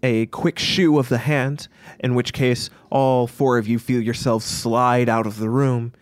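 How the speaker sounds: deliberate scene setting; game master narration. A narrator's reading. Game master moving the party out of the room, measured narration. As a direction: narrate the exit phrase by phrase.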